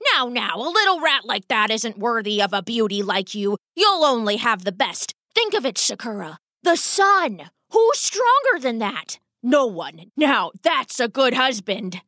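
papa rat brushing objections aside; persuasive rat father. Acted. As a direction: coax the daughter, rising to excited emphasis.

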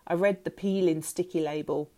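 plain reading voice

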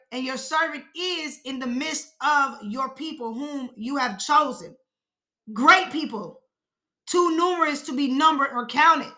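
slow verse with weight on "is" and "Great people"; emphatic reading. Acted. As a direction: read deliberately, stretching "is". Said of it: "Everything that I put emphasis on".

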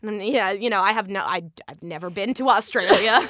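casual Aussie accent, laugh creeping in; Australian accent. Shown as a demonstration. Actor admitting she's never been to Australia, Aussie accent. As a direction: confess it in Australian, amused. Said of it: "Australian accent is my favourite accent".

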